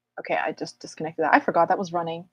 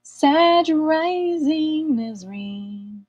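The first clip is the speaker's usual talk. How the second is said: drawn-out call; 8 semitones higher, much slower than usual. Acted.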